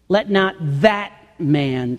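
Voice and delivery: "that" picked out with emphasis; stress on THAT. Shown as a demonstration. Preacher repeating the verse to show who is unanswered, "that" stressed. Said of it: "a specific emphasis on the word".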